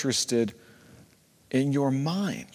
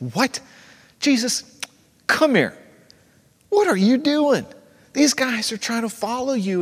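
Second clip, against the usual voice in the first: high-pitched incredulous protest, starting hushed; Peter, highly emotional; 6 semitones higher, faster than usual. Acted. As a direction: act out flustered disbelief, pitch jumping up. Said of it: "highly emotional moment where Peter's just like".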